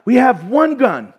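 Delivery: high, loud, laughing through a silly battle plan; cracking up as the panicky soldier; giggling soldier hamming up two bullets; laughing mock army plan. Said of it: "be like".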